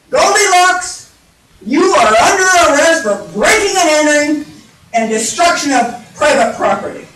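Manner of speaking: loud, official police announcement; arresting detective. Acted. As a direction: boom out the charge like an officer. Detective bear makes an arrest.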